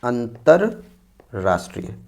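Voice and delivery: each syllable drawn out slowly for students; slow dictation. Shown as a demonstration. Teacher dictating the correct word to students, slowly. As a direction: spell it out slowly so they can write it. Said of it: "जो एकदम सही शब्द है वो है".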